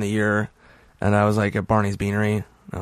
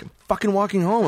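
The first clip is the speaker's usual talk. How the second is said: mildly scared, higher-pitched retelling; retold scared protest; 8 semitones higher, faster than usual. Drunk walker answering the cops, mock scared. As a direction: protest as if a little frightened. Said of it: "Like, I'm all scared".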